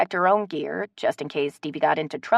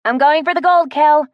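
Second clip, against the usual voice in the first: excited; 9 semitones higher, 8 dB louder than usual. Acted. Calling down from the tree.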